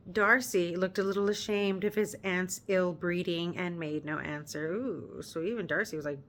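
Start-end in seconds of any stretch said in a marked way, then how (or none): 0.1-4.7 measured read-aloud narration; story narration. Acted. Reader narrating the novel to her viewers, measured storytelling.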